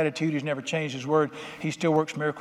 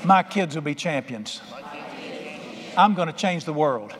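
bolder declaration. Shown as a demonstration. Preacher leading the congregation again, more forcefully. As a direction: say it with real oomph. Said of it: "that was weak".

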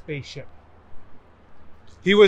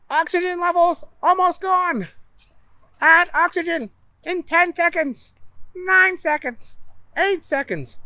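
ship computer countdown; 12 semitones higher, 4 dB louder than usual. Acted. Warning siren countdown.

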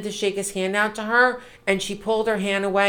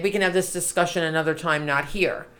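fast and softer, closing the subject; calm, quiet brush-off; 3 semitones lower, 6 dB quieter than usual. Retold or imitated. Host quoting Bernie deflecting Warren, fast and soft. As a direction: hush it down quickly, not here. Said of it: "he said something like".

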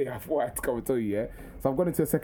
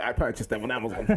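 lower, precise pupil voice; matter-of-fact, well-spoken kid, pitched down; formal schoolboy impression; 5 semitones lower than usual. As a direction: mimic an oddly proper schoolboy. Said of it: "he was talking like, like this".

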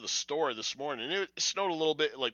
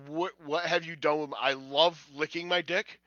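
voicing the dog; 3 semitones higher, 5 dB louder than usual. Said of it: "that's what the look on his face".

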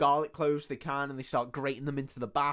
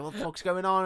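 higher-pitched startled question; retold alarm, pitched up; mock bewildered outrage; 6 semitones higher than usual. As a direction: act out someone woken by a ruckus. Retold vampire woken by screaming.

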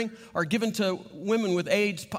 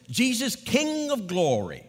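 put-on slow, drawn-out Ugandan-accented prayer; a fervent Ugandan accent calling on Jesus; 2 semitones higher, slower than usual. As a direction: pray it slowly in a Ugandan accent. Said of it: "Had a very, you know, thick accent".

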